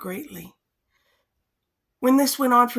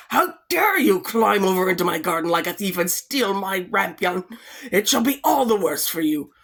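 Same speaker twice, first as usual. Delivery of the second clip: angry witch; 4 dB louder than usual. Acted. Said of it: "She cried with angry eyes".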